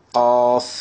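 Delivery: held, level "காஃப்" begun at the back of the tongue; qaf pronunciation demo. Shown as a demonstration. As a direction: say "காஃப்" as Arabic qaf, drawn out. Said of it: "காஃபை நம்ம எப்படி உச்சரிச்சோமோ".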